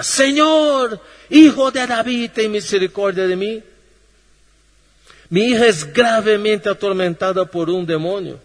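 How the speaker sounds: a desperate mother calling out to Jesus; crying out to the Lord. Acted. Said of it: "clamaba, gritaba". (clamor suplicante, más agudo y fuerte)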